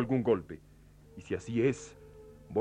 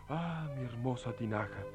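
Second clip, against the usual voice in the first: grieving; 4 semitones lower, 13 dB quieter than usual. Acted. Lolo mourns his jar.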